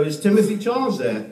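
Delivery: mock disguised caller. Prank caller disguising his voice to the victim. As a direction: fake a different voice on the phone. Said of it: "you disguise your voice and you go".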